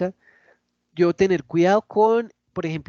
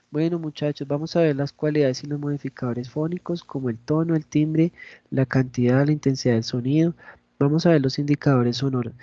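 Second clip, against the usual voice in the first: subdued, slightly lowered lecturing; low-energy explaining; 3 semitones lower than usual. Shown as a demonstration. Teacher showing students how not to explain topics, low-energy. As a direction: explain the topics with little projection. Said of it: "yo no puedo explicarles aquí los temas".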